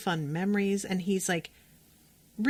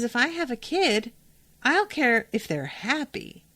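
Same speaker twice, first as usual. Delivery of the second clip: lightly voiced defiant daughter, higher; 5 semitones higher than usual. Recapping the show, Rebecca defies her mother in a higher voice. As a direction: toss it back at mom with a raised pitch. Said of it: "And Rebecca says".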